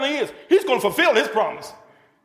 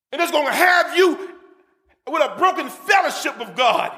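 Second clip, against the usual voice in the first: raised, urgent preacher's voice; pitched-up sermon warning; fervent preaching; 3 semitones higher than usual. Real, not acted. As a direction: warn the congregation with rising force. Preacher warns the congregation.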